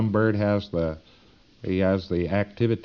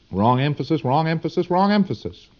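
building exasperated repetition; 5 semitones higher than usual. Real, not acted. Lecturer harping on bad teaching in universities, mounting exasperation. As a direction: chant it, each repeat pitched higher. Repeats the faulted habit, building.

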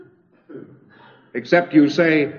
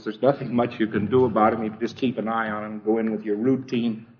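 mock offhand exterminator; 6 semitones lower, 7 dB quieter, faster than usual. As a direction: lower and softer, a casual shrugging mumble. Retelling the exterminator's shrug.

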